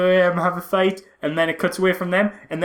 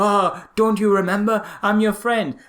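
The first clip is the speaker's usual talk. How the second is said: mock pleading friend; 6 semitones higher than usual. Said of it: "that old cliche of".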